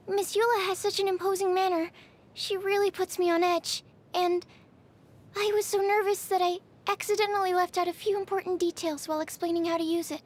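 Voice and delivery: nervous, with a helpless sigh before the end; anxious. Acted. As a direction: worry aloud over a mishap you caused. Anxious confession of an accident.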